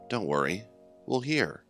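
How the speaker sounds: ordinary delivery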